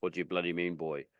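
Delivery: a hint of Dad's Northern Irish accent, dropping away at the end. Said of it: "just a deeper version of my own accent".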